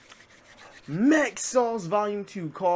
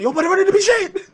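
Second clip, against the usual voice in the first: much higher, louder mock whine of the driver; 12 semitones higher, 8 dB louder than usual. Host mocks the crashed driver, high mock whine. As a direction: squeak it out like the clueless driver. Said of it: "Yo was like".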